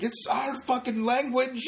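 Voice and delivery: put-on high, indignant English accent; hammed-up outraged Englishman's accent. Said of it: "That's my English impression".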